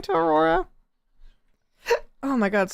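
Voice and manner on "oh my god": talking through hiccups; hiccuping mid-gasp. Real, not acted. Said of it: "sorry, I have the hiccups".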